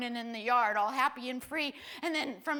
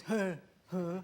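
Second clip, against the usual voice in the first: low, minimal "huh" grunts; brother's grunt; 7 semitones lower, 3 dB quieter than usual. Retold or imitated. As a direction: grunt a half-hearted greeting, imitating a brother. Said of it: "I could just see him, he goes".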